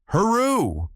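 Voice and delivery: high falling cheer; excited whoop. A narrator's reading. Sailor answering the boy, excited whoop. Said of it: "replied Button".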